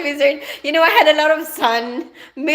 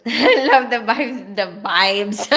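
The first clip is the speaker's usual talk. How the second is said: VIBES with a B for the V, Filipino style; Filipino accent; 2 semitones lower, slower than usual. Real, not acted. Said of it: "The Filipino side is coming out".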